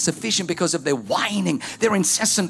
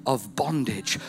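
preaching. Acted. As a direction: hammer the repeated phrase. Preaching litany of oppression.

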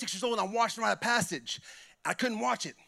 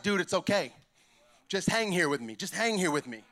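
reassuring friend; 2 semitones lower, 3 dB quieter than usual. Retold or imitated. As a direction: gently settle a reluctant pal. Friend reassures him at the retreat.

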